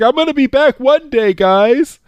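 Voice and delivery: excited promise. Retold or imitated. Roy calling back to the villagers, high and eager. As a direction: blurt it out like a giddy kid. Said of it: "He's like".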